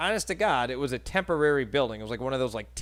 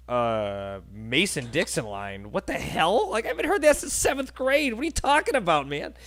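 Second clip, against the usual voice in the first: high-pitched, incredulous protest; baffled disbelief; 3 semitones higher than usual. Retold or imitated. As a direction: retell your bewildered reaction, pitch jumping up. Baffled reaction to the bouncer.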